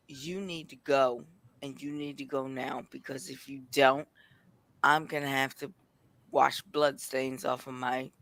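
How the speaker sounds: low, restrained warning; retold quiet threat. Woman re-enacting warning to friends who challenged her, quietly menacing.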